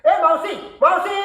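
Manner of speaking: lifted, questioning call. Acted. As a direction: call for someone out of sight. Teacher calls out for the maid.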